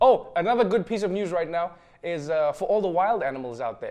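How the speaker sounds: usual speaking voice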